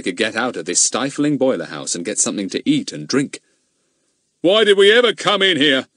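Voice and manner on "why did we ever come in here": high, louder groan of complaint. Acted. Goon groaning to his companion. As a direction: moan it out in misery. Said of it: "groaned Goon".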